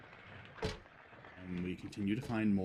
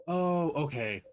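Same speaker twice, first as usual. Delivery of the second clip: surprised; 7 semitones higher, 6 dB louder, slower than usual. Real, not acted. Sudden realization.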